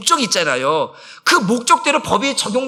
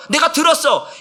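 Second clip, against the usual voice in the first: normal talking voice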